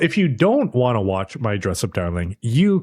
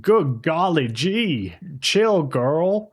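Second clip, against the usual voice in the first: silly character voice; 5 semitones higher than usual. Acted. Host joking to co-host with catchphrases, silly high character voice. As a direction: stretch it out in a high, goofy put-on voice.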